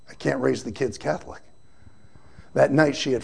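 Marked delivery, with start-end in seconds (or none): 0.1-1.4 tearful wife. Retold or imitated. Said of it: "she's bawling her eyes out".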